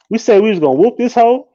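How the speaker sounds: ordinary talk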